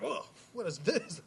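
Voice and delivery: high, slow puzzled voice for the first sip; playing up being baffled; retold surprised question; mock surprise. Retelling first taste of sweet tea.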